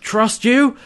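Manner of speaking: high incredulous mock shout, rising at the end; imitated outraged query, voice lifting; shouted question. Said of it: "he's just shouting".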